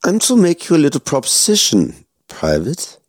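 a cold villain toying with his prisoner; menacing German officer. Acted. Officer makes a proposition.

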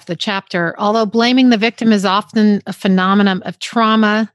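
measured reading of a book passage; reading a book paragraph to her co-host; reading aloud. Real, not acted. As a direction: read the passage out steadily. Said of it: "This was the very last paragraph".

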